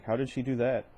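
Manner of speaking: concerned dad, worry in the voice. Shown as a demonstration. Father hears his daughter got hurt, concerned. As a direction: ask like a worried father. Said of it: "and more concerned".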